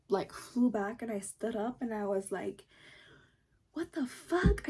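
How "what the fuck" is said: high, incredulous mock yell; high-pitched outburst of disbelief; retold yelling. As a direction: yell it in outrage, voice jumping up. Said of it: "so I started yelling".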